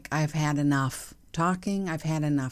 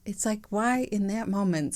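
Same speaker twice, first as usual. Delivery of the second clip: ordinary talk, nothing marked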